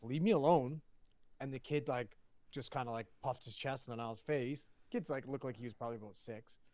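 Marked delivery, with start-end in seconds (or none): 0.0-0.8 mildly mad, voice jumping briefly; retold mad kid. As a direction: imitate a kid's annoyed outburst, a bit louder. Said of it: "Niall got mad".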